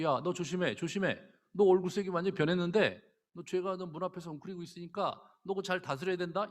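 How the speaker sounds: God cautioning Cain, lightly voiced; God warning Cain. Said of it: "그 하나님이 점잖게 경고하세요".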